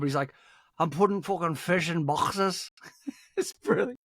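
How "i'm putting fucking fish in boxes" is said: slow, higher, hammed-up Scouse; exaggerated Liverpudlian Scouse, drawn out; forced Scouse accent. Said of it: "it really forces that Scouse accent".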